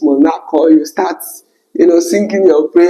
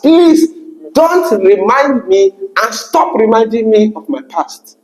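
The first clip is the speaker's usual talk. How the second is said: raised, firm rejection; a hint of an angry ex; retold anger; 4 semitones higher than usual. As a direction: push him away with some heat. Ex-partner angrily ends the call.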